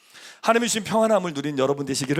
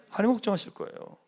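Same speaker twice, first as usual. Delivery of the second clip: normal talking voice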